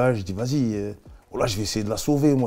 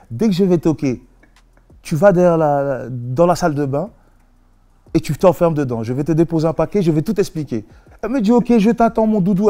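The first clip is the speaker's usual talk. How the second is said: lightly put-on Creole accent, raised pitch; higher-voiced imitation of Creole speech; attempted Creole accent; 5 semitones higher than usual. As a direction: give instructions in a makeshift Creole accent. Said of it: "je vais essayer de faire l'accent créole".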